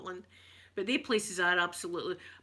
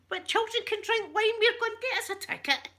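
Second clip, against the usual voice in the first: excited; 14 semitones higher, 4 dB louder than usual. Retold or imitated. Excited reaction to wine news.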